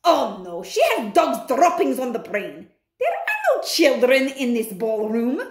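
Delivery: scornful witch. Acted. Grand High Witch dismisses claim.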